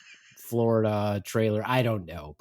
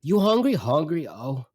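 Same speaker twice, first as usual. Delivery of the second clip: complaining mother; 3 semitones higher than usual. Retold or imitated. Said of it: "my mother's off again".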